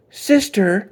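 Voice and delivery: loud angry call to his sister; shouting. A narrator's reading. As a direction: bellow her name, fed up. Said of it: "he shouted".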